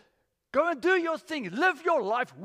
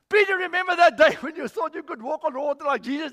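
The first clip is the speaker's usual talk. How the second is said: teasing call; 6 semitones higher, 9 dB louder than usual. Retold or imitated. Disciples teasing Peter, mock joke.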